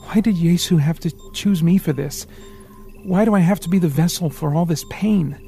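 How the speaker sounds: put-on a boy crying out at his fate; bitter anguish. A narrator's reading. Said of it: "His eyes became angry and bitter".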